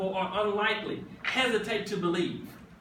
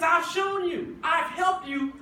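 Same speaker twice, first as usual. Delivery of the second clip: higher, ringing declaration; insistent Jesus; 6 semitones higher than usual. Retold or imitated. Jesus reminding the doubter of his help, higher and forceful. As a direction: proclaim it with force. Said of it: "He says".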